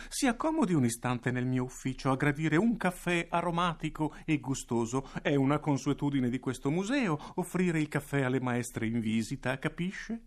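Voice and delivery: voce più acuta, ossequiosa e untuosa; un direttore viscido che adula la maestra; direttore mellifluo. Acted. (direttore untuoso e servile, voce acuta)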